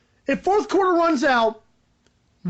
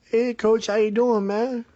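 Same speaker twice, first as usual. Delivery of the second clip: Antonio Brown impression; 3 semitones lower, slower than usual. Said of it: "I did a better Antonio Brown impression".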